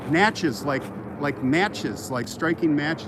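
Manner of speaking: Natchez said slowly, like matches; carefully sounding out Natchez; careful pronunciation. Retold or imitated. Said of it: "I was so careful".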